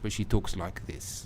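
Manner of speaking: low, soft, murmured film-star voice; hushed sultry actress imitation; Eva Green impression. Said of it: "I do a very good impression".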